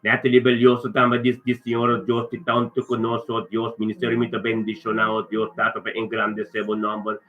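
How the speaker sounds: steady, flowing blessing in short phrases; earnest prayer. Real, not acted. Pastor praying a blessing over a church member, earnest prayer. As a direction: open firmly, then settle into prayer.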